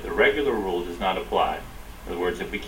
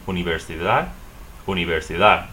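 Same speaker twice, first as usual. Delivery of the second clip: universidad stressed on the final -DAD; last-syllable stress. Shown as a demonstration. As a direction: say u-ni-ver-si-DAD, weight at the end. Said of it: "stress the last syllable".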